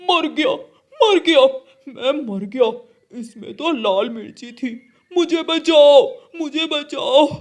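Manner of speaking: a burned crow screaming for rescue; crying for help. Acted. Kalu crow burning from chilli sherbet, panicked cries.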